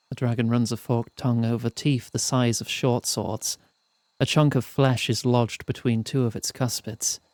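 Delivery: measured, evenly paced storyteller; story narration. A narrator's reading. Narrator telling players of a perilous mountain climb, storytelling. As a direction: read it out like an audiobook narrator. Reads the game's narration aloud.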